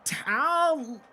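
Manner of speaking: high startled recognition; goofy twin brother. Acted. Twin brother spotting little brother, high surprised voice. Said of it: "these two goofy-looking, identical faces".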